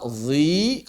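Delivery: "zi" with a heavy z sliding at once to a light i; thick onset, thin vowel. Shown as a demonstration. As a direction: start "zi" thick, then thin it immediately. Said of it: "kemudian langsung tipis".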